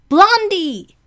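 high, loud, delighted call of the name; excited call. Real, not acted. Speaker spotting a friend on the list, excited call.

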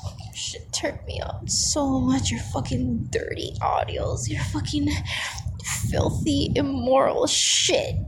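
breathy ASMR whisper, close to the mic; intimate whisper. Acted. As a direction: whisper it like a secret in his ear.

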